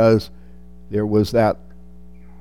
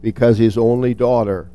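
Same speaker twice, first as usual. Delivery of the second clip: measured Bible reading; scripture reading; 3 dB louder than usual. Acted. Preacher reading Luke to the congregation, measured and reverent. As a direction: read the passage with reverence. Reads the Gospel passage aloud.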